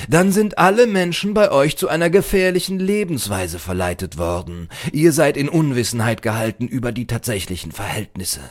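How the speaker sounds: high, loud start settling into lecture; alarmed librarian. A narrator's reading. Librarian warns misled stranger, emphatic admonishment. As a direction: burst out emphatically, then explain.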